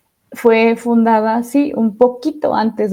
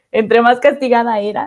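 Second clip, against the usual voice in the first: said through a light laugh; amused at her younger self, laughing. Real, not acted. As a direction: let a chuckle break in.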